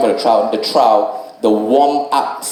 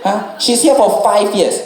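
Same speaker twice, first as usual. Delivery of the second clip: mad retort. Retold or imitated. Comic telling off the fighters. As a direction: pretend to scold the bros. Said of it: "I was so mad".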